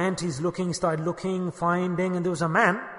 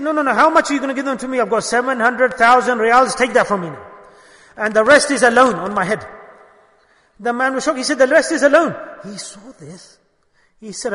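higher, louder urgent bargaining; eager pleading; 5 semitones higher, 8 dB louder than usual. Acted. Khusru begging the traveller for the shoes, excited pleading. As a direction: press the offer breathlessly.

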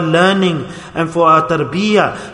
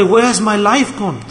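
retold anguished plea, pitched higher; crying lament; 4 semitones higher than usual. A holy man grieving his wasted life to Allah, retold cry. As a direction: imitate a pleading lament without real tears. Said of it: "used to cry".

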